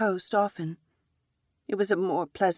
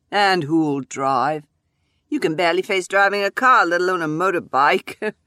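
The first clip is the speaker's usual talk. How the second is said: scornful; 7 dB louder than usual. Acted. Husband mocking wife's idea.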